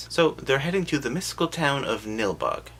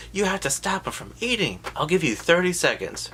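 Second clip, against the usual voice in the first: imitating Grandpa; 8 semitones higher than usual. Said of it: "Grandpa's like".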